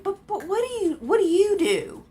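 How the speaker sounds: high mock voice of the woman, slowing down; high confused put-on voice of the woman. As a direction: parody her confused question. Mimicking the woman's question.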